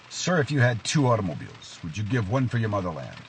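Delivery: lightly hammed Russian officer posing a test; cheesy Russian accent. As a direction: question him in a mock Russian accent. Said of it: "cheesy Russian accent".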